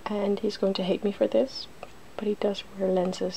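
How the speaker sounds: ordinary talk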